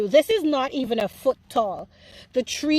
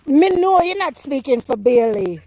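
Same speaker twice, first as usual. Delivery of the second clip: put-on Jamaican-accented retort; Jamaican patois. Gardener answering Jodine back, in Jamaican patois. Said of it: "My, my Jamaican accent, my patois turn up".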